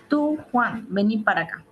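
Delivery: llamado enfático. Shown as a demonstration. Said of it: "Por ejemplo".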